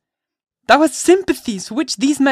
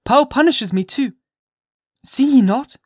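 high, loud, impassioned mother at bay; fierce defiance; 8 semitones higher, 5 dB louder than usual. A narrator's reading. Hester to the magistrates, fiercely refusing to give up Pearl. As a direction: defy them as if ready to die for her. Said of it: "this wild and singular appeal".

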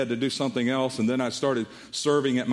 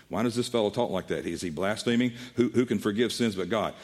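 muttering Pharisees; 4 semitones lower than usual. Retold or imitated. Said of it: "they're thinking to themselves".

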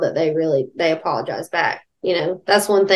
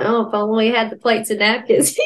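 mildly pointed mock wistfulness; subtle guilt-trip; 2 semitones higher than usual. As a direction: drop a subtle passive-aggressive hint. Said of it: "subtle, you know".

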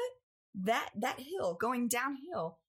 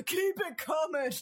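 high drawn-out call; directing call; 7 semitones higher, 3 dB louder, slower than usual. Retold or imitated. Dad directing his wife's reversing car, drawn-out call. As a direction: wave her back with your voice.

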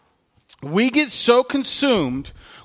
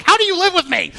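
imitating daughter; 11 semitones higher, 4 dB louder, faster than usual. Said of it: "And she's like".

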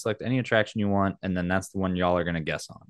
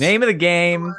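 game show announcer; 8 semitones higher, 7 dB louder than usual. Acted.

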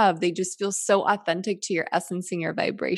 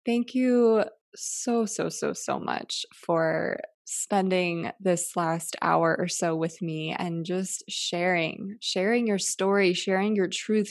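sincere thanks; 4 dB quieter, slower than usual. Real, not acted. Heartfelt thanks to guest.

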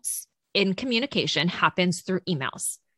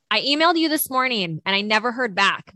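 all-caps email read; 3 semitones higher, 4 dB louder than usual. Acted. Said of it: "imagine it being in all caps".

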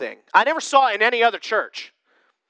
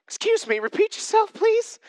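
stunned; 12 semitones higher than usual. Pretend. Owner stunned by talking cat.

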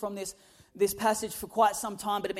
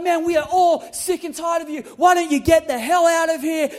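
imitating angry wife; 4 semitones higher, 7 dB louder than usual. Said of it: "She's like".

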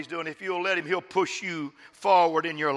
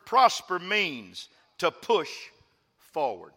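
slow reveal; slower than usual. Shown as a demonstration. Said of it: "Are you ready for this?".

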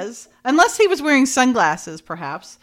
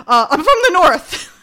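high, loud quote breaking into laughter; laughing mock excuse; 9 semitones higher, 9 dB louder than usual. Host quoting his excuse to her, laughing mock-defensively. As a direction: imitate a lame excuse while cracking up.

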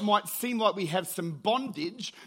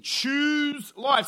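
proclaimed loudly; 6 semitones higher, 5 dB louder than usual. Acted. Preacher reads climax of verse.

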